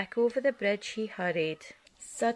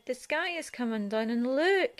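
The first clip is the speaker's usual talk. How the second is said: wailing; 4 semitones higher than usual. Acted. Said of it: "he wailed".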